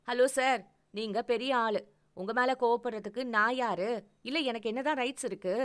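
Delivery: hurt girlfriend mocking her boyfriend; sarcastic anger. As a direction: jab at him with sarcasm.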